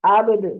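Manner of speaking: आबद with the final द bounced loudly; qalqala bounce. Shown as a demonstration. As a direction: stop on आबद and let the द echo out. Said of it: "अब इसको अब्द नहीं पढ़ेंगे". (आबद, द पर क़लक़ला की गूँज)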